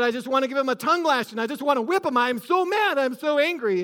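quick, mildly heated father venting; retold anger. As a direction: retell an angry dad's rant with a touch of heat. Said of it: "he was so angry".

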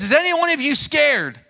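loud, high call to the troops. Acted. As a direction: shout the question across the army. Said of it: "He says".

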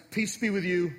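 curt, impatient greeting; wrong tone. Shown as a demonstration. Pastor demoing the wrong tone of Jesus, impatient. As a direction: say it like an annoyed boss. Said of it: "might read this passage like this".

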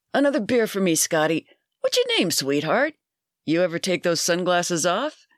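a hint of a leering barfly; pushy barfly. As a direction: chat her up like a pushy regular. Bud hits on the woman.

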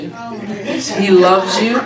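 stretched out slowly through a laugh. Real, not acted. Preacher teasing a listener, laughing slowly. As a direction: let the laugh drag the words out.

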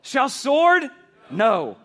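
rally the crowd for the shouted no; call and response. Real, not acted. Preacher leading the campus in shouted answers. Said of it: "I want you to shout the answer".

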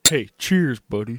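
hey, cheers, buddy with a punchy loud cheers; upbeat emcee toast. Shown as a demonstration. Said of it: "Cut that".

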